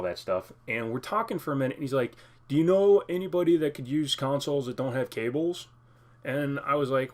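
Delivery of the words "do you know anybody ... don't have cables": a different guy voice, a bit higher and louder; put-on voice for the seller. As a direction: play the seller in a made-up character voice. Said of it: "I don't know why I'm talking like this".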